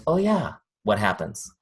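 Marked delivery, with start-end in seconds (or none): 0.1-0.5 high-pitched "oh yeah"; imitated sudden remembering. Woman getting another message next day, high mock recognition. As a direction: act out being pleasantly reminded. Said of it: "She's like".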